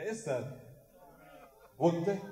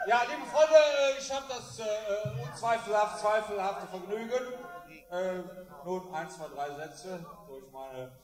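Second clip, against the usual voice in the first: put-on town drunk. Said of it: "in dieses Mikrofon zu lallen".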